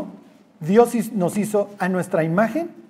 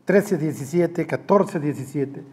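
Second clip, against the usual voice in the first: trece diecisiete, catorce diecisiete spelled out slowly and evenly; slow memory aid; 4 semitones lower, 4 dB quieter, slower than usual. Shown as a demonstration. Preacher drilling verse numbers for the class, slow and even. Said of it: "Les sirve de memotecnia".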